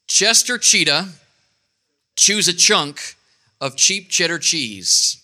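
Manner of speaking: slow broken demo. Shown as a demonstration. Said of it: "Here's a good one".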